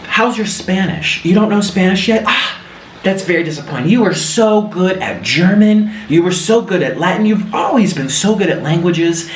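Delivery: lightly mock a mother's dismay; disappointed mom. Imitating mom's dismay on phone.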